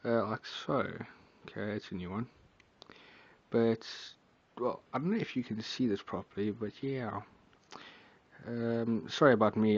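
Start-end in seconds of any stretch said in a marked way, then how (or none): 0.1-7.2 drowsy, half-asleep mumble. Real, not acted. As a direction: talk like you're barely awake. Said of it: "I'm, like, kinda half asleep".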